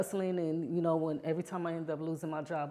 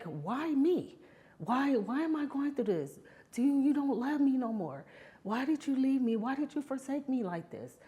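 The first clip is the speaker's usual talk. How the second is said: crying out to God; 9 semitones higher than usual. Retold or imitated. Homeless in the alley, retelling her cry to God, high and pleading. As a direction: relive the desperate plea to God, voice raised high. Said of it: "I yelled and I cried and cried".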